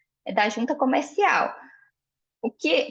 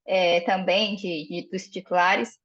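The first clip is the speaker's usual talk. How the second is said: voice cracking; 3 semitones lower, slower than usual. Real, not acted. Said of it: "minha voz falhou".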